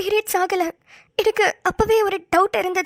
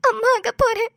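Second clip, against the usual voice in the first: crying; 3 semitones higher than usual. Acted. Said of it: "நீ first அலறத நிப்பாட்டு".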